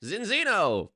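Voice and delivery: high, loud, rolled fake Italian name; fake Italian villain. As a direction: announce it like a cartoon Italian villain. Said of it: "a fake Italian villain from a video game".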